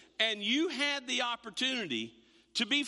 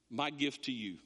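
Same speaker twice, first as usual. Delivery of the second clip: smug mock gift; 10 semitones lower, 3 dB quieter than usual. Parent dreaming of payback.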